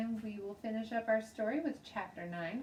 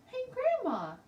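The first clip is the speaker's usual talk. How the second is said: put-on high, loud childish call into the phone; little girl yelling hello to grandma; very shouty; 9 dB louder than usual. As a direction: shout it out like an excited kid. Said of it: "I said very shouty".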